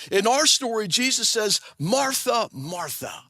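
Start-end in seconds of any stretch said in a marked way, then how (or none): 1.8-3.2 gentle, tapering repeat of the name; lightly empathetic. Retold or imitated. Jesus answers worried Martha, a hint of gentle empathy. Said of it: "empathetic tone in his voice".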